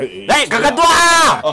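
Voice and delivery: put-on proud drunk father hollering; drunken proud shout.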